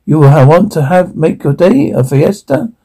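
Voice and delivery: lightly faked thick Spanish accent; put-on Spanish accent. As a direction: sales greeting in a mock Spanish accent. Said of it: "Your thick accent".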